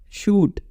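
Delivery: शूट with a long held oo; शूट said with a long vowel; long oo in shoot. Shown as a demonstration. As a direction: stretch the oo in शूट. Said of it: "double O का perfect प्रयोग".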